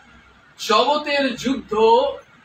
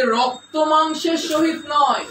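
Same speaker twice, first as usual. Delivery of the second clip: emphatic quote; 4 semitones higher, 3 dB louder than usual. Acted. Quotes verse with force.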